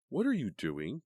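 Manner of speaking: high, loud sharp question; irritated. A narrator's reading. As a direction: snap at her friend. Karen snapping at friend.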